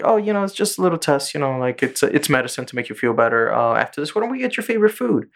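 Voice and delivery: high, sweet mock reassurance; fake soothing adult. Retelling the show, adults lie to a boy in a high sugary voice. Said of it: "And then, like".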